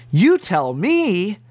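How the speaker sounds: slow, weighty echo of the quote; incredulous repeat. Real, not acted. Preacher echoing the supposed answer to his listeners, slow disbelief. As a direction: repeat it slowly, letting each word hang.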